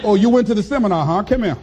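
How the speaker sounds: fast, laughing taunt; laughing mockery. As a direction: tease him while cracking up. Life mocking the dreamer.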